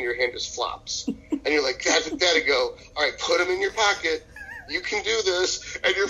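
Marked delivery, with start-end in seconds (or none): 1.8-5.8 higher, encouraging self pep talk, slowing at the end; cheerleader prep coach. Acted. Prep coach voice talks dieter out of the car, encouraging. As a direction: coax yourself along like a cheerleader. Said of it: "cheerleader prep coach trying to talk your happy ass".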